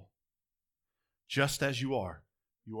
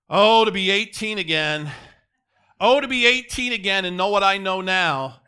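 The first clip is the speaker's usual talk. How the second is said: put-on louder, higher, wistful sigh of an old-timer; wistful older person; 5 semitones higher, 10 dB louder than usual. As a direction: pine for youth like an aging churchgoer. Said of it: "I hear older people say this".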